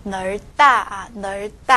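널다 said neol-tta, tense tt; tensed 다. Shown as a demonstration. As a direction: demonstrate 널다 with ㅂ silent and tense tta. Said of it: "把这个다变成重音".

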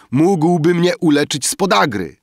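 high, loud volley of wishes; clamoring demands. A narrator's reading. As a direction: shout out wishes like a greedy crowd. Guests shout greedy wishes. (wysokie, głośne okrzyki z żądaniami)

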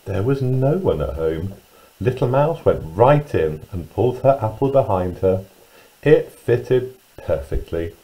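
put-on lively, singsong storyteller reading to young children; children's story narration. A narrator's reading. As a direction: read it with big pitch swoops on key words.

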